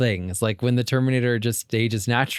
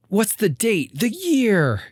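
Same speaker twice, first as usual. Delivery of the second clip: high, urgent questioning; urgent demand; 7 semitones higher, much slower than usual. Retold or imitated. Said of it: "Except he does it in his voice".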